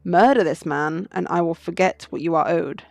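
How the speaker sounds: measured tale in a lightly voiced French character; French prisoner storyteller. Prisoner telling a veiled story of a debt, measured storytelling.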